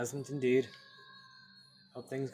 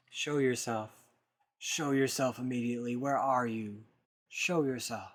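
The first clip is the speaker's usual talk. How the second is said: loud repeated demand; commanding shout; 7 dB louder than usual. Acted. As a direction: call the hidden voice out. Demanding the hidden voice appear.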